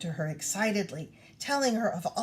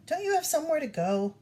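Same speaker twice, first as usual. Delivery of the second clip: impatient; 7 semitones higher, faster than usual. Acted. Kanae snaps at cub.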